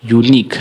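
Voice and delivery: यूनिक ending in a plain "k"; QUE said as क. Shown as a demonstration. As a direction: end यूनिक on a hard "k" sound. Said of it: "का हो जाता है".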